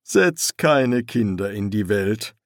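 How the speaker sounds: a touch of bitterness; bitter. Acted. Dead father giving advice on children, mildly bitter. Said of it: "sagte er bitter".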